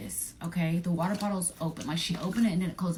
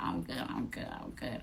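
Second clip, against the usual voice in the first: softer, barely voiced I'm good; mumbled brush-off; 8 dB quieter than usual. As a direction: mumble it, half out of it. High friend mumbling she's fine.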